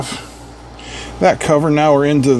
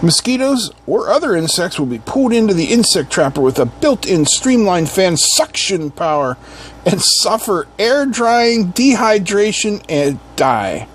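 box-copy read; 4 semitones higher than usual. Acted. Reviewer reads how the trap kills, emphatic copy read. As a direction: read the blurb with salesman emphasis. Reads product description aloud.

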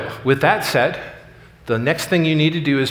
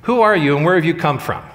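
a retold menacing challenge, slightly louder; 3 semitones higher, 4 dB louder than usual. Boss blocking the door challenges new hire, mildly menacing. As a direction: square up and demand it of the newcomer. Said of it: "he says in a menacing voice".

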